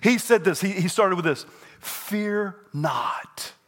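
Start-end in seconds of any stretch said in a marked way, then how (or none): 1.8-3.5 a breathy whisper of the words Fear not. Shown as a demonstration. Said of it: "Say that with me".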